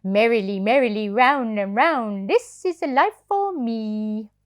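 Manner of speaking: a contented toy horse singing his joy; rocking horse voice. Acted. Parent reading to child as happy rocking horse. Sugar Lump speaks.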